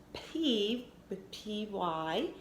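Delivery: put-on spaced-out letters for the child to write; slow spelling. Shown as a demonstration. Teacher spelling the second syllable slowly. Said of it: "the next syllable is".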